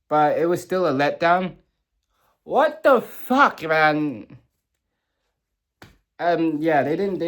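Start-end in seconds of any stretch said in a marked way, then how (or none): 2.4-4.4 exasperated. Real, not acted. Frustrated fan reacting to the finale.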